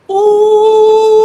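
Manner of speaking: high, loud whoop of amazement; impressed ooh-wee. Real, not acted. Reacting to the coach's rap.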